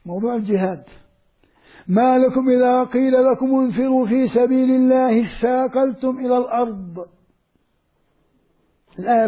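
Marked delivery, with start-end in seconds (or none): 1.9-7.0 measured tajweed chant of the verse; Quran recitation. Shown as a demonstration. Teacher recites verse to students, measured tajweed chant. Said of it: "خذ قوله تعالى".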